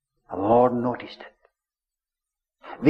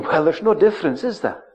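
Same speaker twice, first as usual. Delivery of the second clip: scoffing cynics; 3 dB louder than usual. Retold or imitated. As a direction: toss it off like a dismissive townsman. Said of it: "They, they were saying".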